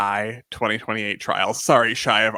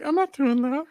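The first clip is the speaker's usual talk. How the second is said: scared refusal; 14 semitones higher than usual. Retold or imitated. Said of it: "'cause it's like".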